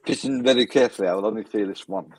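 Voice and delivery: a hint of a mock French accent, the Allo Allo line; lightly voiced French accent from the sitcom, teasing; 'Allo 'Allo French accent. Quoting Allo Allo to friends, lightly voiced mock French accent. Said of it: "an episode of Hello, Hello".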